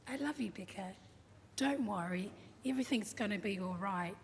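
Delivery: quietly tender retold reassurance; loving reassurance. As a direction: soothe her as a loving father would. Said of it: "He is so loving and forgiving".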